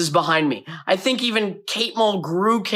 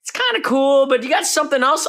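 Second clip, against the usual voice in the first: director's voice; 10 semitones higher than usual. Retold or imitated.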